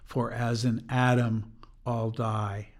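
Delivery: slow, grave "For as in Adam all die"; slow and mournful. Shown as a demonstration. Speaker reading the anthem text, slow and mournful. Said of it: "it gets slow and mournful again".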